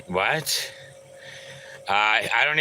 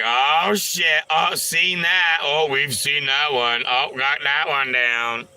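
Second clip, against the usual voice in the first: put-on excited boys; 4 semitones higher than usual. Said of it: "They're always like".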